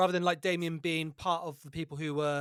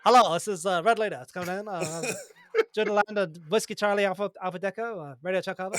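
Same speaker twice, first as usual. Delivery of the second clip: pilot cockpit headset. Pretend. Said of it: "do it with that voice".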